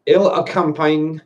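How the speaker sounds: slow French read with English pronunciation; English-accented French. Shown as a demonstration. Wine drinker retrying the French label, English pronunciation. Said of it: "I'll pronounce it with English".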